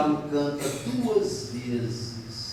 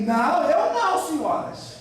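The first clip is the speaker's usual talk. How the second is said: high, loud acted denial; hasty denial; 9 semitones higher, 3 dB louder than usual. Peter denying to passing ladies, hasty denial. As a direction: deny it at once in a raised pitch.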